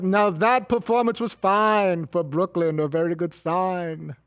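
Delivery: slow, drawn-out bad Ryan accent. Coworker redoing his limerick for laughs, bad Ryan accent. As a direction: recite verse in a clumsy put-on Ryan accent. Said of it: "that was my bad Ryan accent".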